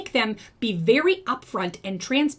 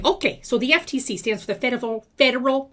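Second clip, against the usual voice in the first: winded, stumbling over words; out of breath. Real, not acted. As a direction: talk through heavy breathing. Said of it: "I can't talk".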